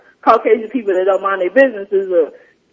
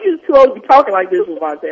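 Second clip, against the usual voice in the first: mock scolding. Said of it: "I'm like".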